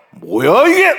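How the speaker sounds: loud, sharply rising challenge; very stern. Shown as a demonstration. Parent sternly confronts a child, very loud. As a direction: demand an answer with stern force. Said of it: "화난 게 아니고 굉장히 엄해요".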